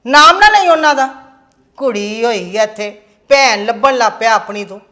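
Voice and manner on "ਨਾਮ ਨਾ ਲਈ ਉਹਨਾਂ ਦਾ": loud scolding. Acted. Mother scolds about the rakhi.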